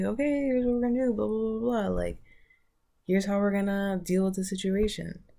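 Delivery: decisive king. Acted. Decisive king gives orders.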